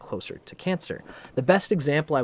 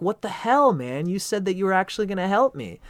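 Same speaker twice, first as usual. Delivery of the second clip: high, loud mock outrage; betrayed Texan; 8 semitones higher, 6 dB louder than usual. Texan oilman protesting to the Pisces monkey, mock outrage. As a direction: squawk like a double-crossed oilman. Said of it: "And the Texan guy's like".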